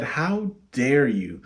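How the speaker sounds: slow, lightly imitated little daughter; toddler's broken speech. Three-year-old daughter scolds dad for bumping her, slow mock broken speech. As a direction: draw it out, mildly mimicking a small child. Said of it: "broken speech".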